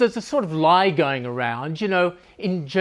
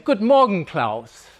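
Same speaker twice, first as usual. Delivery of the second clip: workplace greeting; 3 semitones higher, slower than usual. Acted. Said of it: "You say".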